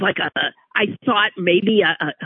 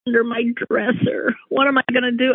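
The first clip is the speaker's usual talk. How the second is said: 2 a panicky thought, high pitched; 3 rising alarm at the mouse; 1 mock panic; 6 semitones higher than usual. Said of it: "So I thought".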